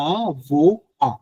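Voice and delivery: "আ, ভো, আ" said as three separate syllables, a-vo-a, no final r; avoir split into syllables. Shown as a demonstration. Teacher to students, sounding out avoir syllable by syllable. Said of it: "সাউন্ডটা হচ্ছে".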